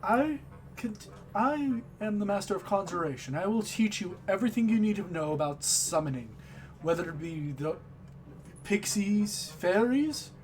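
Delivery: lightly voiced owl master, starting high; a touch of a high bird-man voice; giant owl professor. Giant owl professor introduces conjuration to students, lightly put-on voice. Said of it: "you see that he says".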